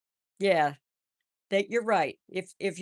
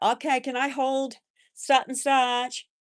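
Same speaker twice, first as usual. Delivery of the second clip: put-on child asking; 7 semitones higher, 3 dB louder than usual. Grandkids asking to hold babies.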